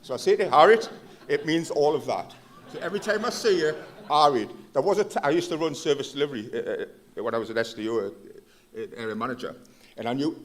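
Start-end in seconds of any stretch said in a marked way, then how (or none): 4.1-4.5 Geordie greeting. Shown as a demonstration. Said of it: "you might hear us say two syllables".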